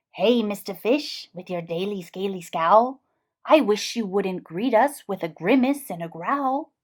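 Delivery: a lightly voiced gentle jellyfish; floaty jellyfish. The jellyfish gently chiding the grumpy fish. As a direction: drift the words like a jellyfish.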